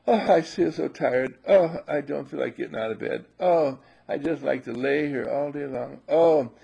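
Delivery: lightly voiced moaning complainer; mock a lazy whine about getting up; whiny lazy self.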